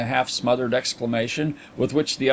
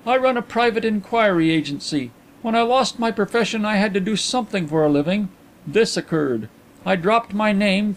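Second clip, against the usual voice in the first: high, animated gentleman's voice; Carlyle; 7 semitones higher than usual. A narrator's reading. Carlyle explaining his inquiry agency, high-pitched and matter-of-fact. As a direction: keep the pitch raised and lively.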